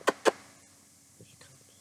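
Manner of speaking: whispered, slow aside. Real, not acted. Owner whispering as her dog trots over. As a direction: hush it as she comes.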